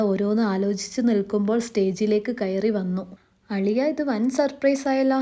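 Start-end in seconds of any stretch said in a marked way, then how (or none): 3.5-5.2 higher-pitched, surprised greeting; pleasant surprise. Acted. Groom to brother-in-law arriving unannounced on stage, surprised.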